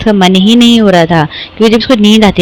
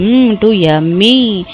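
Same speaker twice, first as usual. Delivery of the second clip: dramatic yummy reaction; much slower than usual. Real, not acted. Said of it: "मैं देखो कैसे बोल रही हूँ".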